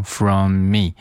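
"from me" joined through the m; "from me" with a single m between the words; linked "from me". Shown as a demonstration. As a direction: run "from me" together as one word. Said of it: "from和me进行一个连读".

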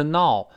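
"now" said as "naw", lacking its glide; mispronounced "now". Shown as a demonstration. Teacher showing what to avoid in "now", mispronounced. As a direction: say "now" wrongly, rhyming with "law". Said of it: "不是now".

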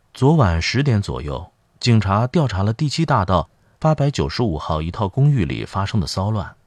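put-on girl reading out a newspaper report; reading aloud. A narrator's reading. Volunteer reads the murder report to a patient, reading aloud. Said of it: "姑娘清清喉咙读道".

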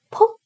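a short, popped "bang"; imitated bang. A narrator's reading. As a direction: narrator imitates a sudden thud. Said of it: "的一声巨响". (模仿“砰”的响声)

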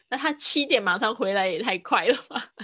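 real amusement bubbling into the words; amused, laughing. Real, not acted. Teacher jokes about the traveller's quick return, laughing.

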